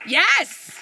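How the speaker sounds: high, loud "Yes!"; triumphant cheer. Real, not acted. Closing the talk, triumphant and loud. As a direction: punch the air with it.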